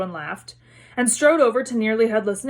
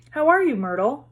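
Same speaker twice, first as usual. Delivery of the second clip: falsely bright; 4 semitones higher than usual. Acted. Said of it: "in a falsely bright voice".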